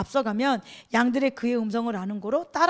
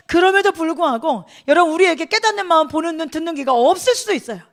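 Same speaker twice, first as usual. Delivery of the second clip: raised, urgent sermon voice; higher, louder pulpit exhortation; forceful preaching; 5 semitones higher, 6 dB louder than usual. Real, not acted. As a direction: press each question on the congregation.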